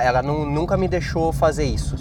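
usual speaking voice

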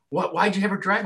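mock yelling wife.

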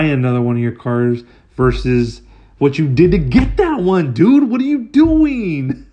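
exasperated inner rant. Retold or imitated.

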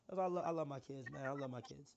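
rough, hoarse voice from a cold. Real, not acted. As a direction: talk through a scratchy throat. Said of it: "I know I sound a little rough".

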